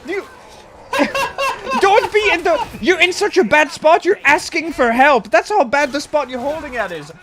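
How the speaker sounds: retold outraged rant at a clueless teammate; shrieking rant with laughter. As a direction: rant until you crack up. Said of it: "And it's like".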